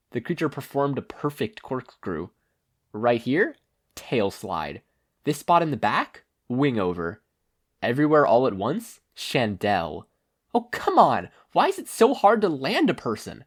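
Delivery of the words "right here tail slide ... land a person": put-on frustrated young hero. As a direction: try each spot, then blow up. Izuku trying spots, frustrated.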